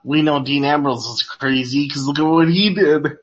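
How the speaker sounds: drowsy, yawning voice; sleepy. Real, not acted. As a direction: talk through a yawn. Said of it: "you sound sleepy, bro".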